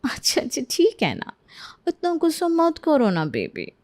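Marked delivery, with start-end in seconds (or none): 1.9-3.7 cooing. Acted. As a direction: pout and sweet-talk him. Bride coaxes husband. (लाड़ से baby कहती पत्नी)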